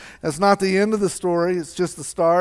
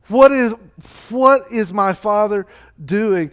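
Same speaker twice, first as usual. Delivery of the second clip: mildly indignant, slow emphatic protest; acted indignant refusal; angry older brother. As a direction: lean on the key words in acted outrage. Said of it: "the older brother became angry".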